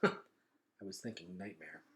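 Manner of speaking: slow, level and dry; even. A narrator's reading. Gregor answering the old man, dry and even. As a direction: say it flatly, unimpressed, slow. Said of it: "said Gregor evenly".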